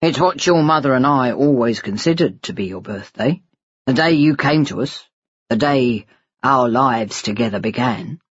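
understated fatherly reasoning; lightly voiced father. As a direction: gently explain as the adoptive father.

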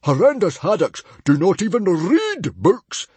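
high, loud pronouncement; angry decree. Acted. Father adding to the family rule, angry. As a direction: lay down the law loudly. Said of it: "added Stoic".

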